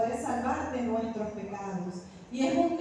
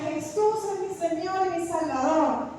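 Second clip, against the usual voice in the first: higher, insistent declaration of faith; retold cry, raised only mildly; louder declaration; 4 semitones higher than usual. Dreamer answers the voice in the nightmare, declaring more firmly. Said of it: "Dilo más duro".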